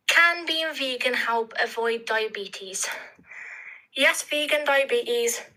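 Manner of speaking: breathless halting reading; out of breath. Real, not acted. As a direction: read it out of breath. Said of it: "Sorry, I'm out of breath".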